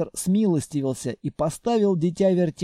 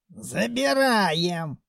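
put-on old man voice; 3 semitones higher, much slower than usual. A narrator's reading. Mumiy decides.

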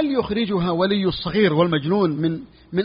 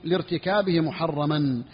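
slow text reading; slower than usual. Shown as a demonstration. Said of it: "قال".

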